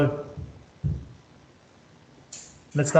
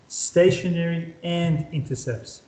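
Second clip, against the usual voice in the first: slow emphasis; slower than usual. Shown as a demonstration. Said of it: "So horizontal point of inflections become".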